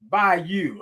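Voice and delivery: Bayou said as BY-you; local pronunciation. Shown as a demonstration. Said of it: "that's how they say it".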